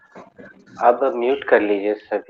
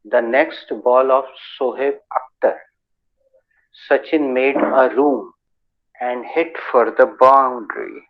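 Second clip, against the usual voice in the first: slow motion; 3 dB louder, much slower than usual. Shown as a demonstration. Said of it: "बहुत slow motion में भी बोल के दिखाते हैं".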